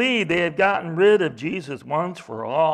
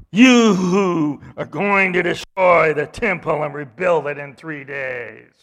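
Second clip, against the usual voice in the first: mocking; 3 semitones lower, 5 dB louder than usual. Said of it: "were hurling abuse at him".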